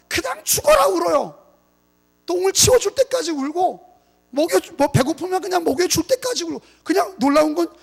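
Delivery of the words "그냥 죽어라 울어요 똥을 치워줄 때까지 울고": preaching shout. Acted. Preacher emphasizing fervently.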